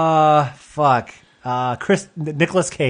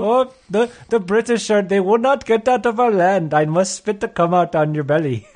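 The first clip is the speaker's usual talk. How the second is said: lightly put-on Indian accent, pitched up; a hint of Indian accent, raised pitch; mock Gandhi accent; 4 semitones higher than usual. Comic as Gandhi protesting the British, light Indian accent. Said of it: "where's your accent?".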